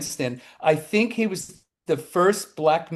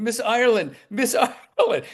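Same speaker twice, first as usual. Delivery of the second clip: higher, urgent calling; 8 semitones higher than usual. Retold or imitated. Bleeding young man chasing Jill Ireland, urgent higher calls. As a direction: flag her down on the street.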